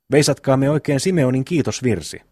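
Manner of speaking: lightly mocking call to sing a hymn. Eero teases Simeoni about his hymn of thanks, lightly mocking. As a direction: make fun of piety, understated. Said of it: "Olet tekemättä pilkkaa, Eero".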